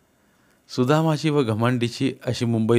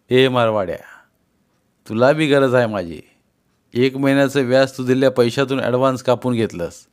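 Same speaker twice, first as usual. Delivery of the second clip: loud retort; 4 dB louder than usual. Acted. Sudama answers the trader.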